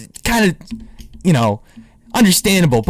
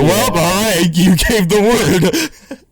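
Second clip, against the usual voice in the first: voicing the dog; 3 semitones higher, 4 dB louder, much slower than usual. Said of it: "Zeke was like".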